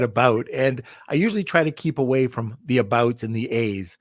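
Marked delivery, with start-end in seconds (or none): 0.0-0.5 Canadian accent. Shown as a demonstration. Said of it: "I just said".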